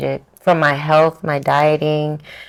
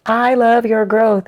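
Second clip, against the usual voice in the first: high, slow, drawn-out admiring voice; gushing fan; 6 semitones higher, slower than usual. Retold or imitated. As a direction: imitate a commenter gushing praise. Voices gushing online commenters.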